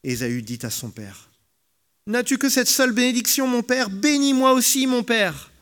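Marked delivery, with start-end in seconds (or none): 2.1-5.5 high, pleading, tearful plea; weeping aloud. A narrator's reading. Esau pleads with his father for one more blessing, weeping. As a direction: beg through tears. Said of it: "Et il se mit à pleurer tout haut".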